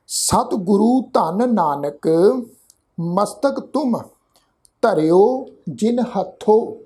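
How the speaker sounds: slow, measured reading with long pauses; slow scripture recitation. Shown as a demonstration. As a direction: recite the invocation reverently, word by word. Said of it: "ਮੰਗਲਾਚਰਨ ਦਾ ਪਾਠ ਹੈ".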